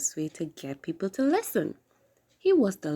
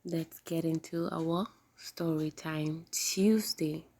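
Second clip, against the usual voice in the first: whispering; 2 semitones lower, 5 dB quieter, slower than usual. Real, not acted. Whispered story lead-in.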